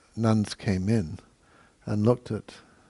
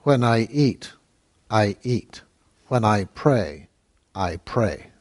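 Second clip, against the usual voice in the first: firm, emphatic comeback in short measured phrases; acted stern pronouncement, each phrase set apart; glaring retort; 4 dB louder, slower than usual. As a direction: put the nuns in their place, deliberately. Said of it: "turned to the two sisters and glared".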